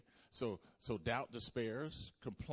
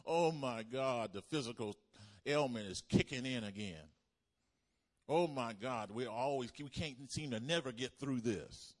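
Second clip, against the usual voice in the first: loud mock complaint; 6 dB louder than usual. Acting out a doubter complaining.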